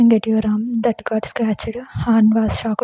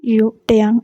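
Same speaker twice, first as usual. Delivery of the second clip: screaming for Taeyang. Acted. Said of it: "screamed, looking down".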